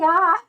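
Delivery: high bleat with amusement; imitated camel cry. Streamer proving the camel sound, imitated cry. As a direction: make a high camel noise. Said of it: "I think they do go like".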